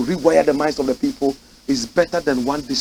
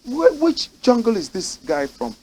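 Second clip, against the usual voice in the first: mock astonished child; 6 semitones higher than usual. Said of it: "If in little children say".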